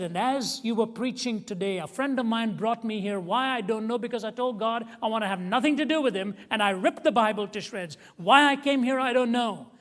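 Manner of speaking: rising, tearful plea; tearful retelling. Retold or imitated. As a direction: voice climbing high and loud, near tears. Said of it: "And then she started to cry".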